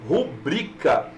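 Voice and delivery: "rubrica" slowly, stressed on "bri"; careful correct stress on "rubrica"; drawn-out rubrica. Shown as a demonstration. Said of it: "Não existe rúbrica".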